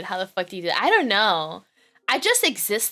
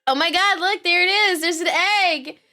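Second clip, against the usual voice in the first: high-pitched pretend wonder; playful awed discovery; mock amazement; 7 semitones higher, 4 dB louder than usual. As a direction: marvel at it in a high voice. Mock wonder at laid egg.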